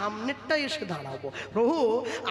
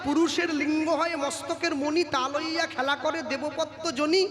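put-on chanting the old verses in a steady preaching tone; verse recitation; 2 semitones higher than usual. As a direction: recite the verse like a kirtan singer. (পদাবলী আবৃত্তির সুরে)

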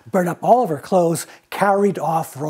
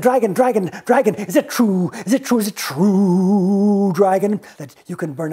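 high, excited fawning; butter up the dragon, drawing out is it true; eager flattery; 5 semitones higher, 4 dB louder than usual. Acted. Elizabeth flattering the dragon, high and eager.

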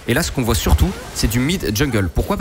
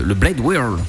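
Blade Whirl said slowly in a clumsy English accent; bad English accent; much slower than usual. Shown as a demonstration. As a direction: exaggerate a bad English accent on the spell name. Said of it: "avec un accent anglais dégueulasse". (accent anglais dégueulasse, lent et appuyé)

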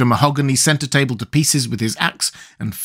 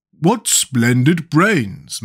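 murmured; 2 semitones higher, much slower than usual. A narrator's reading. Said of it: "murmured Jack".

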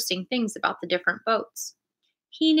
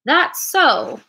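higher-pitched exclamation; crying out; 7 semitones higher, 4 dB louder than usual. A narrator's reading. Silver hears of a pirate, crying out. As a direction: exclaim it in surprise. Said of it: "cried Silver".

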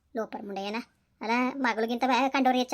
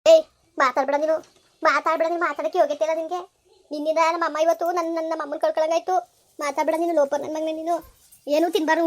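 louder, cutting him off in rage; angry outburst; 3 dB louder than usual. Acted. Wife silencing her husband, furious. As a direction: snap at him to shut up. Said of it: "ನಿನ್ ಕೋಪ ಬಂದೈತೆ".

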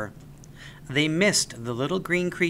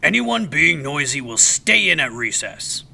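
louder, quick, bossy teacher voice; teacher Mister Pratt ordering the class, louder; stern teacher; 6 dB louder than usual. A narrator's reading. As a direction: hush the class firmly.

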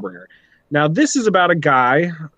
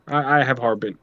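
normal talking voice

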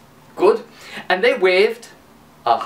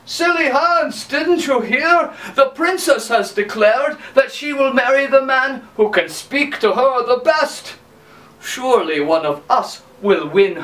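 a hint of boastful big brothers; 5 semitones higher than usual. Brothers tell Silly Hans about the princess, lightly boastful.

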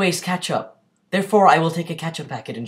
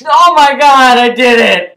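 overjoyed shout, pitched way up; excited shout; 6 semitones higher, 13 dB louder than usual. Real, not acted. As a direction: shriek with real triumph. Blew up a balloon with nose.

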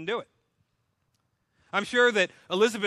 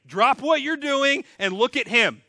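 herald's proclamation; 6 semitones higher, 7 dB louder than usual. Retold or imitated. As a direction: announce it like a herald clearing the road. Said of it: "blowing the trumpet saying".

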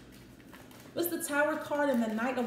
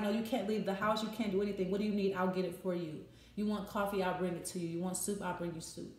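imitated doting carer, lower and much softer by the end; doting caretaker; 4 semitones lower, 5 dB quieter than usual. Protective partner fussing over pregnant woman, hushed and doting. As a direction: fuss over her softly, offering everything. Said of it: "waiting on you hand and foot".

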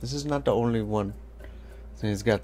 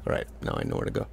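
whisper to self; 6 dB quieter, much faster than usual. Real, not acted. Muttering to self.

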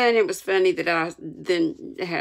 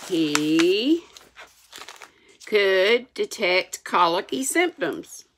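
measured, expressive reading aloud; story narration. A narrator's reading. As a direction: read it like an audiobook storyteller.

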